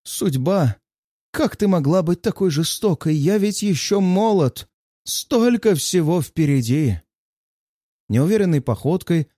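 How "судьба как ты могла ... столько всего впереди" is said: higher, hammed-up theatrical lament; mock tragic lament. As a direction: play the tragic hero, overdone. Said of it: "Драматично стану".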